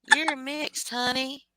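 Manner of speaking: lightly voiced Dalton quip; imitating Dalton. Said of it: "you want me to speak Dalton for you".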